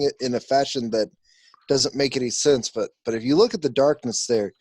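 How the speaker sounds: startled, then tumble into explaining; mildly flustered scholar regaining his thread; flustered surprise. Acted. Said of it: "surprise that you're still there".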